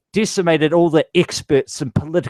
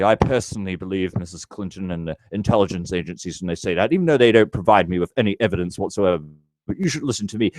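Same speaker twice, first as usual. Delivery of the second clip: lower, faster sarcastic parody voice; lightly voiced smug pundit, rattled off quickly; mocking impression of Al Gillespie; 4 semitones lower, faster than usual. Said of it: "Al Gillespie".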